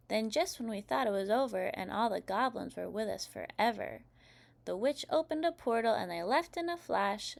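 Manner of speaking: put-on lively rhyming read-aloud for kids; storybook reading. A narrator's reading. Narrator reading How to Catch a Witch to children, lively storytelling. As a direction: read the Halloween rhymes with bounce, like to a class. Reads picture book aloud.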